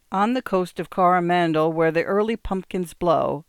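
put-on reading a poem in an English accent. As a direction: recite in a crisp English accent. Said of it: "a pronounced English accent".

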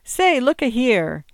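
loud, high, drawn-out protest; resentful exclamation, slowed for emphasis; indignant. A narrator's reading. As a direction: object indignantly, raising pitch and volume. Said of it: "all indignant resentment".

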